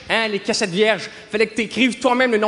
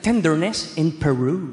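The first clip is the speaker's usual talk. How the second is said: low, drawn-out put-on English voice; mock jazz title announcement; 3 semitones lower, much slower than usual. Naming absurd instrumental jazz demos, mock-smooth low voice. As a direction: croon the title slowly, deep in register.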